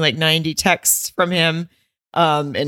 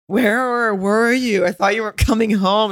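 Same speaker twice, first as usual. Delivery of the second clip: put-on higher-pitched, drawn-out child's plaint; imitated kid; 5 semitones higher than usual. Kid confronting a parent who was gone for hours, imitated child voice. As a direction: mimic a kid asking a parent, stretching the words. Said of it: "the kid walked in and was like".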